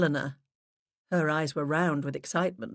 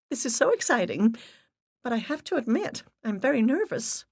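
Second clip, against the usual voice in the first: put-on excited young woman; 8 semitones higher than usual. Rebecca voiced excitedly.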